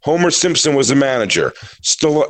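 lightly campy impressionist patter; mock hack-comic delivery; overhyped setup. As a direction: announce each celebrity like a reveal. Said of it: "and overhyping it".

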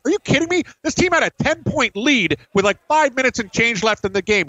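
high-pitched, incredulous retold protest; retold outrage. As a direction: replay the angry disbelief at the table. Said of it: "I was just seething".

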